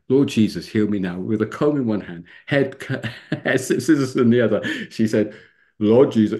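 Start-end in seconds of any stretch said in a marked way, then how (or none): 5.8-6.4 loud imitation of a Welsh accent; lightly voiced Welsh woman starting a prayer; Welsh-accented retold prayer. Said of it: "a lovely Welsh accent".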